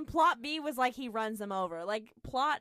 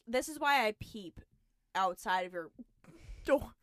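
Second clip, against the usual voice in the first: trying not to laugh. Real, not acted. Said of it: "I can't even finish it".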